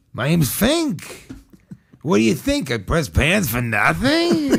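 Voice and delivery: slow, drawn-out mock Jewish shopkeeper accent; a hint of an old-world Jewish accent, taking it slow; lightly accented shopkeeper. Comedian imitating the dry cleaner's accent for friends. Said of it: "afraid to do the, like, accent in front of her".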